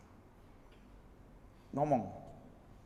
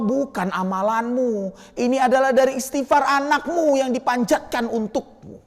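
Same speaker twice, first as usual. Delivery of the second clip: calm divine answer; 3 semitones higher than usual. Acted. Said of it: "Kata Allah".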